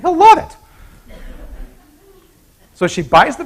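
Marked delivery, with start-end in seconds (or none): 0.0-0.6 delighted lady. Acted. Lady delighted with her purchase.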